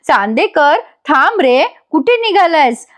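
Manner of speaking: lightly acted protest, pitch climbing; acted calling after. Wife calls after her escaping husband, mock protesting. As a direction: call after someone slipping away.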